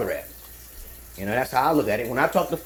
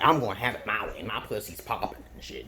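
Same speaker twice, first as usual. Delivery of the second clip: mock diva; 6 semitones lower, 4 dB quieter than usual. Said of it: "An alpha female is a diva type of bitch".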